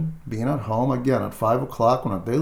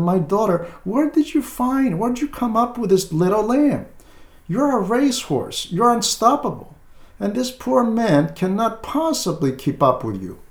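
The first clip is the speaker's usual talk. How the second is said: raised, incredulous pastoral rebuke; fatherly scolding; 6 semitones higher than usual. Retold or imitated. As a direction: chide her like a wise old priest, pitched higher. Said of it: "you tell them".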